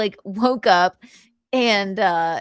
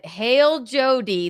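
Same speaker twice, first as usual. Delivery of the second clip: proclamation; slower than usual. Pretend. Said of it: "they say".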